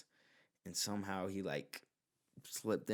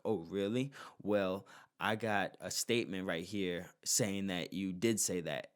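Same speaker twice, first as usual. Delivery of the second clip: a mock smug gotcha, a touch louder; 4 dB louder than usual. Old man confronts the witness, mildly smug and loud. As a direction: lightly mimic a cocky defendant catching a witness out.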